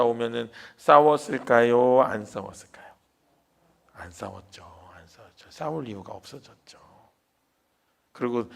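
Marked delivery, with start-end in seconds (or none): 3.9-4.6 soft answer. Acted. Answering own question softly. 5.0-5.5 soft echo. Acted. Echoed whispered answer.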